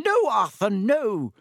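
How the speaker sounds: high, loud cry of protest; shrieking. A narrator's reading. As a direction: shriek to stop your husband fighting. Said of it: "Missus Weasley was shrieking".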